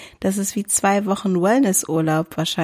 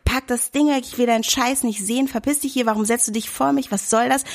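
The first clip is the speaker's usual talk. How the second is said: higher, retold angry yell, not full volume; 5 semitones higher than usual. To the man on the train, a higher-pitched mock telling-off. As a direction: replay the telling-off with a raised pitch. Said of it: "hab ihn halt voll angeschrien".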